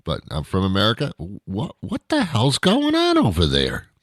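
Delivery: mock foreigner. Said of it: "And they go".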